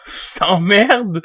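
laughing it out loud. Real, not acted. Gamer laughing after another player attacks him, laughing. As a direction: laugh through the insult.

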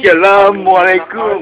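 ustaz greeting. Acted.

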